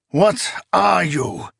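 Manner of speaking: high, slow cry of dread; frightened cry. A narrator's reading. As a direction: cry out at something unnatural. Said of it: "he cried".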